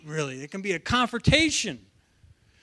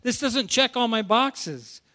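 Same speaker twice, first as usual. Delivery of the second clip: higher-pitched mock doubting voice; puzzled objection, lightly acted; acted sceptical crowd; 6 semitones higher than usual. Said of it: "Still hung up on this knowledge".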